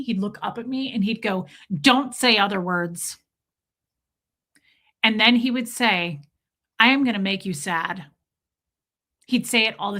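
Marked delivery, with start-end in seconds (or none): 1.8-3.2 put-on understated little-kid firmness; unanimated toddler defiance. Small son to mom who disagreed, understated defiance. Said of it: "He wasn't super animated. He'd go". 6.8-8.1 understated mock threat; unanimated toddler threat. Small son to mom, understated threat. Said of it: "He wasn't super animated".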